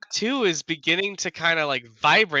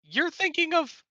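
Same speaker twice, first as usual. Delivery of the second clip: goblin voice; 13 semitones higher than usual. Acted. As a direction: speak as a grand goblin storm caller. Plays goblin Gobnarl telepathically.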